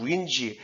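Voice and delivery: "왠지" as English "orange" with its stress; English word stress. Shown as a demonstration. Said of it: "이거 강세 넣어서 읽는 연습을".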